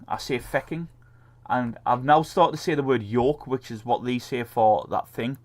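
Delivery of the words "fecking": "fecking" with an e in place of the u; Irish-style swearword. Shown as a demonstration. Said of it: "instead of me saying fucking".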